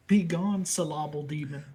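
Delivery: loud, high banishing shout; mock exorcist. Banishing the "syllable demon", mock-zealous shout.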